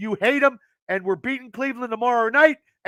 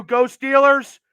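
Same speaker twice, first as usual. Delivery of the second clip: team cheer; 3 semitones higher, 7 dB louder, slower than usual. Real, not acted. Sign-off cheer for his team.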